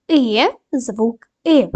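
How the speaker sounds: І drawn out clearly, very slow; slow sound demo. Shown as a demonstration. Teacher models the sound І for pupils. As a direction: sound out the letter І slowly. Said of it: "дамо характеристику кожному звуку".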